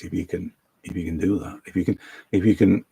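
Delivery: halting words while holding breath. Real, not acted. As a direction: squeeze the words out on a held breath. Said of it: "sorry, I'm holding my breath".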